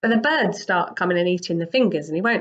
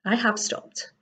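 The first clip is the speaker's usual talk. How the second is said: gentle; 4 semitones higher, 4 dB quieter than usual. Acted. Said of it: "Buddha very gently says".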